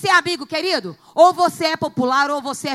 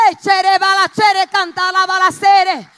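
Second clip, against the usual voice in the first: speaking in tongues; 5 semitones higher, 7 dB louder than usual. Real, not acted.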